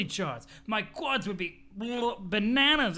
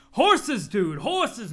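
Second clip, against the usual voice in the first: excited shout; 2 semitones higher, 7 dB louder, much slower than usual. Acted. Bro shouting about horses.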